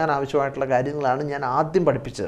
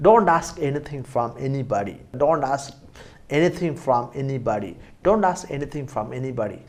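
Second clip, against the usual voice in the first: slow model sentence; 3 dB quieter, much slower than usual. Shown as a demonstration. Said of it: "നീ ആരോടും ഒന്നും ചോദിക്കണ്ട".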